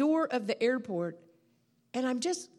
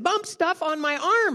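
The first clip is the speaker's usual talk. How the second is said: slower high, loud repeat of his cry; mock amazed exclamation; imitated astonished man; 6 semitones higher, 6 dB louder than usual. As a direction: stretch out his baffled yell. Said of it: "that's how he said it".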